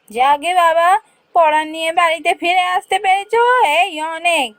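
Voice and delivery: high wife voice, relieved. Acted. Wife relieved husband safe.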